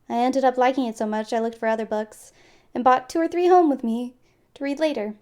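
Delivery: slightly winded narration; out of breath. Real, not acted. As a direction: read it short of breath. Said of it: "I feel like I'm out of breath".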